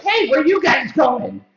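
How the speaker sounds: high, drawn-out mock girly call; imitated young girl. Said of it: "we were just walking along and they're like".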